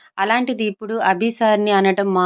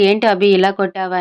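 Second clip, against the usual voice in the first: mildly frustrated, a bit louder; a touch of annoyed protest after being slapped awake; lightly voiced irritation; 4 dB louder than usual.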